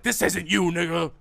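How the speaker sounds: high, loud mock plea; pleading shout. Bystander to a friend being restrained, pleading shout. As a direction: call out urgently from the sidelines. Calling out from the sidelines.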